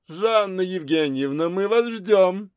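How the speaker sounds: high call across the park. A narrator's reading. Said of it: "Это кричал Тенорог".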